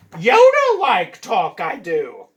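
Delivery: slow, loud Yoda voice, each word dragged; hammed-up slow Yoda read; mock Yoda with do. Shown as a demonstration. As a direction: draw it out like a bad Yoda. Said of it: "Let's see what that says".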